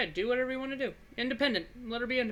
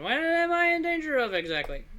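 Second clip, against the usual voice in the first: higher and louder, pressing hard on each word; emphatic; 9 semitones higher, 5 dB louder than usual. Shown as a demonstration. Babysitter presses the girl about the danger, insistent. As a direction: demand an answer, wide-eyed. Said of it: "definitely the first one".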